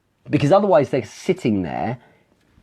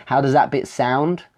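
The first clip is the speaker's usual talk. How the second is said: "How does that bit sound?" with the voice lifting on "sound"; rising question tune; 2 semitones higher than usual. Shown as a demonstration. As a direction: end "sound" on an upward inflection to imply a question. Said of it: "another way is with tonality at the end".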